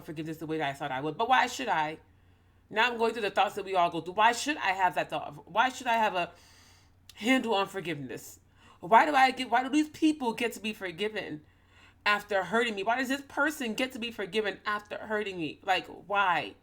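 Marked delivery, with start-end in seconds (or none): 1.2-2.0 indignant challenge, pitched up; anger in the voice. Real, not acted. Speaker resisting the call to forgive, angry. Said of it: "Do you feel the anger that is in my voice". 4.1-16.5 heated, indignant questioning; anger in the voice. Real, not acted. Speaker asking why those who hurt her get forgiven, angry. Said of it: "Do you feel the anger that is in my voice".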